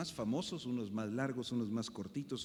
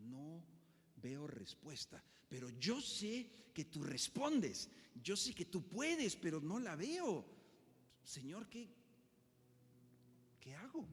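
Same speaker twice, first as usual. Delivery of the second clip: perplexed prayer; 3 semitones higher, slower than usual. Acted. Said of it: "El salmista está perplejo".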